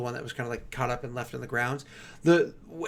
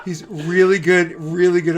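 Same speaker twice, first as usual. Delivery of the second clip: laughing through the words; breaking up with laughter; 4 semitones higher, 11 dB louder, slower than usual. Real, not acted. GM laughing at player joke.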